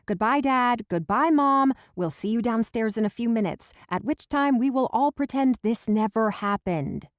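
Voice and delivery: loud, high, flustered; embarrassed shout. Acted. Laura, mortified, sending her parents downstairs, loud and high. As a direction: shout them out of the room.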